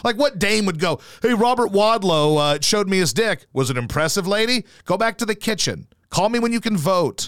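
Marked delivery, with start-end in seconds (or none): 1.2-7.3 high, dismissive 1930s guy; mock old-timey man.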